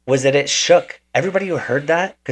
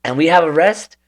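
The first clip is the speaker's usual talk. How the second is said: eager instructions; 6 semitones higher, 6 dB louder than usual. Retold or imitated. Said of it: "He's like".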